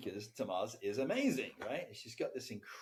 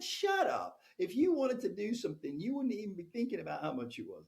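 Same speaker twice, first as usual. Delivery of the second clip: imitating an angry snap; 7 semitones higher, 5 dB louder than usual. Tamaz snaps back at him.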